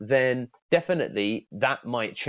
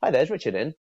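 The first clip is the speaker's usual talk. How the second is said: light casual receptionist ask; casual first name only; 3 semitones higher, much faster than usual. Shown as a demonstration. Coach demos a friendly call opener. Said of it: "do you see the distinct difference".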